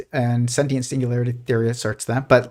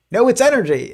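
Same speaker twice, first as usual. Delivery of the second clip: higher squeaky cartoon bickering; arguing cartoon physicist; 10 semitones higher than usual. Cartoon physicist arguing with another, higher insistent voice. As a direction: play a cartoon scientist insisting, pitched up. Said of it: "he's like".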